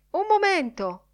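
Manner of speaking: shouted call. A narrator's reading. Bloom hailing Crawford amid newsboys, shouted call. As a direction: cry out to catch someone's attention. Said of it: "gridò".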